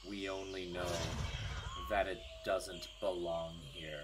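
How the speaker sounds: low, hushed, measured creature voice; solemn creature head. Acted. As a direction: speak softly and deep, with grave pauses. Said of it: "The head kind of slowly breaks the surface".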